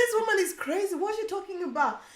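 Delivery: high, rising disbelief; can't believe what she hears; incredulous. Retold or imitated. Repeated disbelief, raised pitch.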